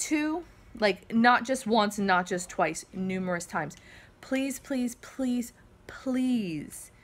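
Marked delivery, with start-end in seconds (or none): 4.2-6.9 breathy whispered please, repeated and higher. Real, not acted. Pleading with viewers not to donate.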